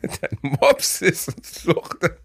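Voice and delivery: slow, laughing repeat. Real, not acted. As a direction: repeat it while laughing hard. Repeats friend's line, cracking up.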